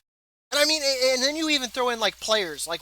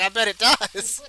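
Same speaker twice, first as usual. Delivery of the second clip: slow suggestive innuendo; 4 dB louder, slower than usual. Retold or imitated. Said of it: "I was like".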